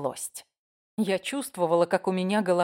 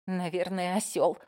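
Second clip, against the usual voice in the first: muttered under breath; 5 dB quieter than usual. Acted. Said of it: "буркнула я себе под нос".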